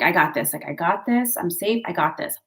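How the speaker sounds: calm self-reassurance. Shown as a demonstration. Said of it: "take a deep breath and just".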